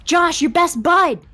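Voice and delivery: a hint of a casual pal; lightly voiced friend. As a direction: brush it off like a buddy. Josh voiced reassuring.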